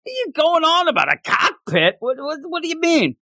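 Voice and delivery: high, fast incredulous outburst; can't believe what he's hearing; mock disbelief. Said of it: "He's like".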